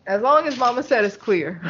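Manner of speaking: giggling through the words; laughing. Real, not acted. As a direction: laugh while you say it. Repeats the punchline while laughing.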